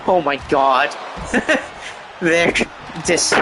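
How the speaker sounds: breaking up in laughter over a flubbed word; real laughter after a tongue slip; laughing at own slip. Real, not acted. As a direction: giggle through it, breathy and broken. Flubs Benedict Arnold, cracks up.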